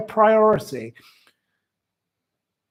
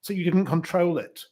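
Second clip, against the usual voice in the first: mock excuse; faster than usual. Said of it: "because you will claim".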